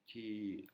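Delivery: "Ti" drawn out with a descending tune. Shown as a demonstration. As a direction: slide down through a long "Ti". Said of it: "une intonation plus grave".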